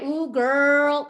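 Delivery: loud, high, drawn-out playful exclamation; sassy girlfriend exclamation. Acted. Host mimics her unfiltered self on the radio, playful and exuberant. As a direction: play up an excited, too-familiar interjection. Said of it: "am I being this kind of".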